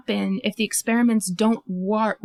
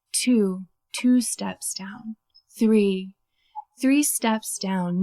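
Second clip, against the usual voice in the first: soothing hypnotic voice. Retold or imitated. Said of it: "talking to me in his very soothing, hypnotic voice".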